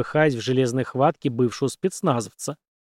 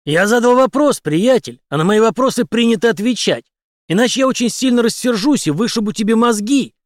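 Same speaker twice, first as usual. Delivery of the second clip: loud, higher, menacing soldier; hoarse threat; 8 semitones higher, 6 dB louder than usual. A narrator's reading. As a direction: lean over him and threaten. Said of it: "хрипло проговорил Генри". (Генри грозит врачу, громко и зло)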